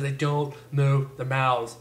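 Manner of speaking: "don't move their mouths" slowly, jaw held still; slow, tight-mouthed "mouths"; mouth barely moving. Shown as a demonstration. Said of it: "Koreans always talk with the mouth closed".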